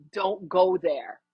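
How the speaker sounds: slow, low, firm inner voice; a slow steady warning from within; calm inner warning. Pretend. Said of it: "your intuition is like".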